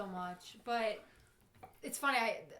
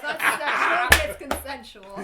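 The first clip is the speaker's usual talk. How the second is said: laughing; 12 dB louder, slower than usual. Real, not acted. Laughing denial of sex story.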